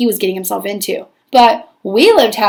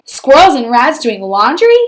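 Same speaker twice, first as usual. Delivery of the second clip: sharp scolding, louder; scolding stepmother; 5 dB louder than usual. Acted. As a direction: scold her for silly stories. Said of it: "I said".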